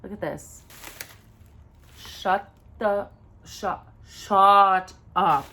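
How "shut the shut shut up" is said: very slow, halting, loud on one word; stunned disbelief. Real, not acted. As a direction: draw it out, speechless with delight. Stunned by the next product.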